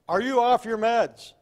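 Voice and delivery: loud, high, slow yell; retold shout. To a screaming man at the door, loud slow yell. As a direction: belt it out at the ranting man. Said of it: "as loud as I could".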